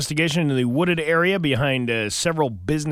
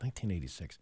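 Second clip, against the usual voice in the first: muttered to himself; 7 semitones lower, 14 dB quieter, faster than usual. Retold or imitated. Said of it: "I'm like".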